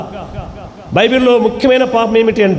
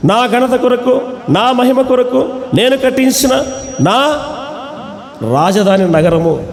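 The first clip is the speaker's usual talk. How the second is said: boastful king; slower than usual. Retold or imitated. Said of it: "అని గర్వంగా మాట్లాడాడు".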